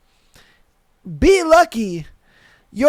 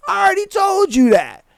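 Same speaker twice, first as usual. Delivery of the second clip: gloating shout; 8 semitones higher than usual. Retold or imitated. Shouting after the other driver, high gloating shout. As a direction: shout it like a victory.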